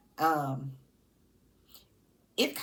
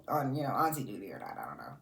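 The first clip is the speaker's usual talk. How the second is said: unvoiced gossip whisper; 10 semitones lower, 5 dB quieter than usual. Real, not acted. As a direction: drop to a sneaky whisper. Gossip aside.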